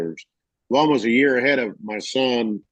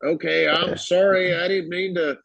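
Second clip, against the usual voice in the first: sheepish apology; 7 semitones higher than usual. Retold or imitated. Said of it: "He goes".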